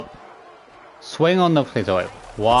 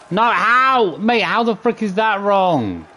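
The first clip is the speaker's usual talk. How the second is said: frustrated protest; 4 semitones higher, slower than usual. Real, not acted. Failing the combo again.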